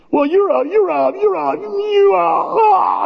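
high, stammered shout into a yell; mock sputtering frustration. Rufio failing to find a comeback, sputtering frustrated shout. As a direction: stumble over the insult until it bursts out high.

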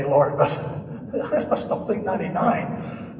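laughing through a mock objection; acted protest broken by a laugh; amused doubt. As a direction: chuckle while doubting it to the Lord. Joking as doubtful Abraham, laughing.

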